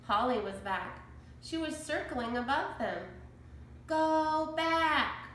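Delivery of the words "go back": high, louder parrot voice; squawked. A narrator's reading. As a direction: warn them like a parrot. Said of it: "she squawked".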